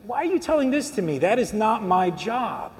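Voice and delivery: lightly acted brush-off, slowing on the refusal; mild retold rebuff. Preacher voices Jesus answering the man, mild rebuff.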